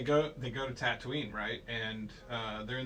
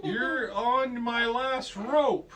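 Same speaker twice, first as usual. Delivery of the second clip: high, slow, drawn-out plea; hammed-up damsel calling for help; mock princess plea; 8 semitones higher, 5 dB louder, slower than usual. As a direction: plead slowly in a raised voice. Acts hologram princess pleading, comically garbled.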